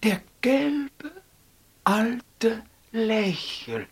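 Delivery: slow, hushed narration; whispered narration. A narrator's reading. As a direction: whisper it softly and slowly.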